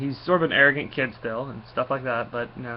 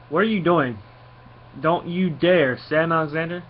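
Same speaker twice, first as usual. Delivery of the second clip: scolding mom; 4 semitones higher, 4 dB louder than usual. Acted. Mom scolding son leaving for space.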